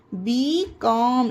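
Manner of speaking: "बीकॉम" said slowly with no L sound; "बीकॉम" with a mute L before the M; silent L. Shown as a demonstration. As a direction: draw out "बीकॉम", leaving the L silent. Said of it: "का ला में sound नहीं आ रहा है".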